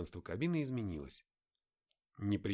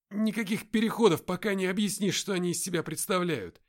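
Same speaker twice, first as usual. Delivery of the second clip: louder, higher words between sighs; heavy sighing; 9 semitones higher, 9 dB louder than usual. A narrator's reading. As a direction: push it out breathing heavily. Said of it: "тяжело вздыхая".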